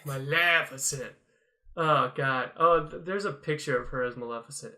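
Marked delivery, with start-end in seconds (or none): 0.1-1.1 slow Scottish villain impression; heavy Scots accent. Echoing the bad guy's line, heavy Scots accent. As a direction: stretch the name out in Scots. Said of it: "with his heavy Scots accent".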